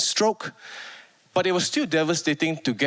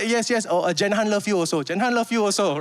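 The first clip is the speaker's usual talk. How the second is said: flustered reply; 3 semitones higher than usual. Retold or imitated. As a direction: caught off guard, fumbling for words. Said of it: "it shocked me".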